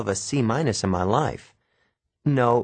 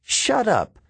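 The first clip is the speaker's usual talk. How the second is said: hissed; 13 semitones higher, 3 dB louder than usual. Acted. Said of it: "Nancy hissed".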